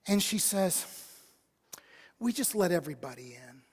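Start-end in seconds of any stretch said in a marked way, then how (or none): 2.2-3.6 low, near-whispered answer; hushed reply. Acted. Trainer confiding in a gym member about the intruder, hushed. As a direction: say it under your breath, voicing someone else.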